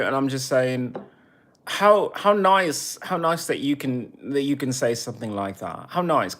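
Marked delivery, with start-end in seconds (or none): 1.7-6.4 sarcastic. Real, not acted. Sarcastic jab at critic.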